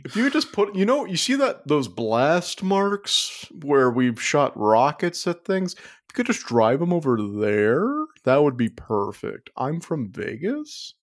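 lightly put-on Vegas accent, pitch lilting upward; mock Vegas accent. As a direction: play a Vegas local with a hint of an accent. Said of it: "this is a classic Vegas accent".

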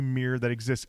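low, earnest brotherly vow in imitation; lightly voiced movie madman pledging loyalty, pitched low; Looney Bin Jim. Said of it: "And Looney Bin Jim's like".

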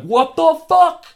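loud, high, drawn-out disbelief; reenacted jaw-drop reaction; shocked outburst. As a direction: blurt it out in stretched-out shock. Retelling their shocked reaction to reveal.

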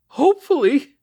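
very high, loud, incredulous cry; horrified cry. A narrator's reading. Mother reacts to officer's news of her son, crying out. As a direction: cry the word back in disbelief. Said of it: "she cried".

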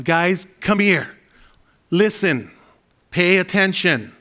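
slow, emphatic call to a crowd; loud voice. Acted. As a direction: call them over, each command drawn out and punched. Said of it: "a loud voice".

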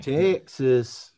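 mock Texan drawl on "Texas"; Texan accent. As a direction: stretch the first vowel of "Texas" like a Texan cowboy. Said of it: "Western American accent".

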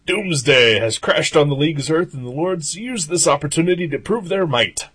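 dramatic recap narrator; punchy dramatic comic narration. Acted. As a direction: read it like a radio drama. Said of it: "It's like a little radio drama".

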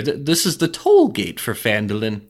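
ordinary talk

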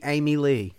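mock Arkansas AY-mee LEE; Arkansas version. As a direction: Arkansas take on a French name. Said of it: "If she was from Arkansas".

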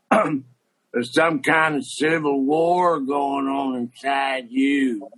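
slow, solemn mock coach voice; quoting the coach. Coach lecturing a kid about his inner war, slow and solemn. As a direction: drag it out like a grave old coach. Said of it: "I'm gonna almost quote him verbatim".

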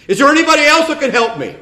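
high, loud, fast and laughing; laughing punchline. Acted. Man on the cliff asks for another helper, high fast laughing. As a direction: blurt it out through laughter.

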